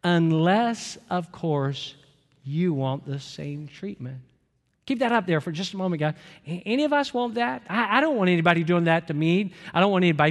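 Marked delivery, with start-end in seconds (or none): 0.0-4.2 reading aloud together. Shown as a demonstration. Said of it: "Everybody, let's read this together".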